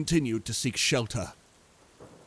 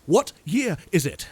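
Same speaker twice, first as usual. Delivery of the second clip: frantic; 4 semitones higher, 4 dB louder than usual. A narrator's reading. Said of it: "I asked almost frantically".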